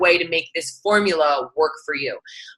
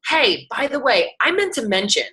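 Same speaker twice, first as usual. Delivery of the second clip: casual friendly message; 5 semitones higher than usual. Shown as a demonstration. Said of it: "my message is just gonna simply say".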